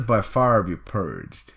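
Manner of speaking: slow, loud fiery decree; fire lord voice. Pretend. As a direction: pronounce doom like a fire elemental. Quoting the fire lord's line.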